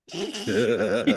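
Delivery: mimicking kids holding back laughter; imitated stifled laugh. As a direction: snicker as if trying not to laugh. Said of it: "just like I was doing".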